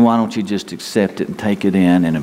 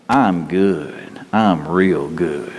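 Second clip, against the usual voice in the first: cocky pilot; 4 semitones lower, much slower than usual. Retold or imitated. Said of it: "he kept saying".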